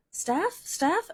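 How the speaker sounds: high, loud calling of a name. Retold or imitated. Stranger calling her name from down the street. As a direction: call across the street. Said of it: "he goes".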